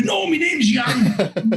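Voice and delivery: slow mock retort. Official's punchline in retold story.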